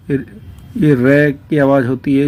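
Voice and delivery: रै said slowly, carefully spelled out; slow teacher demo of रै; slow demo of ri sound. Shown as a demonstration. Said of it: "ऋषि".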